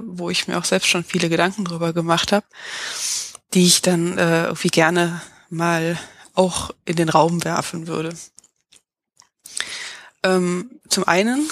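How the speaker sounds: talking with a head cold; stuffed-up nose from a cold; stuffy nose. Real, not acted. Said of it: "ich bin ein bisschen erkältet".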